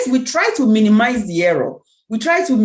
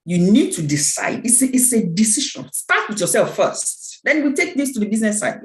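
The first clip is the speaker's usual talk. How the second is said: pastor-like. Acted. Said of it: "I'm beginning to talk like a pastor".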